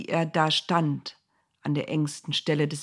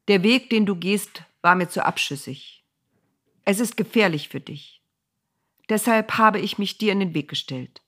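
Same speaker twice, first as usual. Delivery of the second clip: stern angel. Acted. Angel rebukes Bileam.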